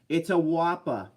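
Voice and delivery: put-on drawn-out Boston accent, "whoppa" with no r; slow mock Boston accent on "whoppa". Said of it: "I love the Boston accent so much".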